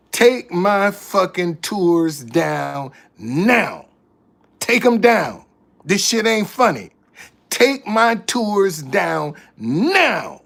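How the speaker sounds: slow, deliberate mock anger; retold angry demand. Telling the booking lady off, retold anger. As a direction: lean on each word like you mean it. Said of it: "pissed me off".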